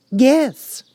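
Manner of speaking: a high, loud call; shouted yes. A narrator's reading. Alice answering the Queen, a high loud shout. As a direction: call it back across the crowd. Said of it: "shouted Alice".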